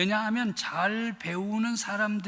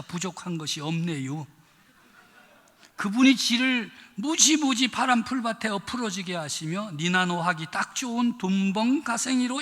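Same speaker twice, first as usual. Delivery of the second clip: Chungcheong dialect. Retold or imitated. Pastor reading the Chungcheong psalm to the congregation, lightly in dialect. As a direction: read the psalm like a Chungcheong countryman. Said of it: "충청도 버전이 유명해".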